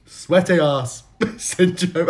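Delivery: slow, badly faked Cockney accent; bad Michael Caine. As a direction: draw it out in a poor attempt at Cockney. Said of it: "I'm so bad at accent".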